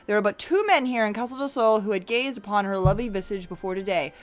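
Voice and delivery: smug, measured deduction read aloud; lightly voiced detective. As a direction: lay out the proof like a showman.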